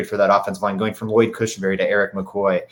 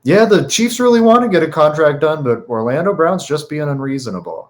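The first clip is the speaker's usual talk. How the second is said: team spokesman voice; 4 semitones higher, 5 dB louder than usual. Retold or imitated. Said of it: "it was like".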